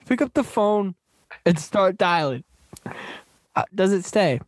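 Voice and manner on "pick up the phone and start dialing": a hint of a pitchman, higher at first; mimicked sales pitch. Host quoting the movie speech to co-host, lightly mimicked pitch. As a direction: lightly imitate a motivational pitch, punching "Good". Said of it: "It's just like".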